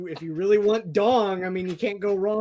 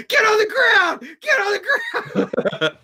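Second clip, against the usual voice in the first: much higher and louder, barked like a cop; mock Canadian shout; 3 dB louder than usual. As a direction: yell it like an over-the-top Canadian cop. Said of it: "they sound".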